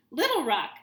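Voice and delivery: high, loud squeaky yip; yipped. A narrator's reading. Nervous kid yipping an answer into the phone. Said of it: "I yipped".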